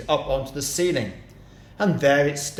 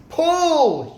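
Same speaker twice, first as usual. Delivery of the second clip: much higher, loud yell; 7 dB louder than usual. A narrator's reading. Mugglewump yells at monkeys dragging the carpet, high loud yell. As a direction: throw the word out as a frantic command. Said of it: "yelled Mugglewump".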